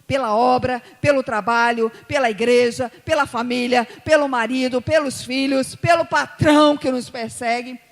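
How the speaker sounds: loud, driving preacher's list; preach. Real, not acted. Preacher exhorting congregation to compassion, loud and forceful. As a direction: hammer each item at full volume.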